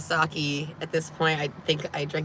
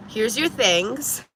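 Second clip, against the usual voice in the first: forced calm; 5 semitones higher, much slower than usual. Retold or imitated. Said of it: "trying to stay calm".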